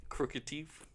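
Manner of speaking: crooked teeth whispered in disbelief; whispered echo. Real, not acted. Friend quietly doubting the crooked teeth claim, whispering. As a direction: breathe the question.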